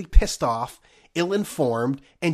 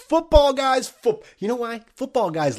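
mock excited; 9 semitones higher, 3 dB louder than usual. Mocking football fandom.

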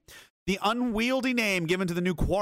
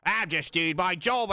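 mock police officer. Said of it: "That is not the same thing as".

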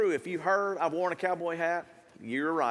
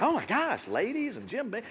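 mock shock; 5 semitones higher than usual. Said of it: "And you're like".

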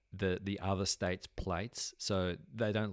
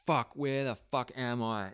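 shocked disbelief; 5 semitones higher, 3 dB louder than usual. Retold or imitated. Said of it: "And I was just like".

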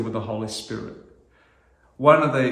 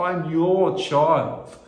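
belting it out; 4 semitones higher, much slower than usual. Shown as a demonstration. Pastor shows the church how to belt it out, slow and higher. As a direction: proclaim it out slowly with joy. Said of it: "we just belt those words out".

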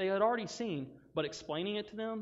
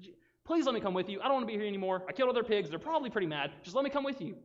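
raised, urgent pleading; acted begging; 5 semitones higher, 3 dB louder, faster than usual. Healed man to Jesus at the boat, acted begging. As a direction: plead lightly hammed-up, pitched high. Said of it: "was begging Jesus to go with him".

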